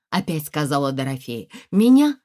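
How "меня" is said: high, loud startled query; a sudden shocked rise; surprised question. Acted. Lyonya startled by his wife's news, loud rising question. Husband mishears her news.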